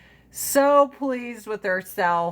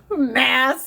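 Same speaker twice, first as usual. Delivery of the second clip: incredulous; 4 semitones higher, 5 dB louder than usual. Retold or imitated. Outraged retort to grandma.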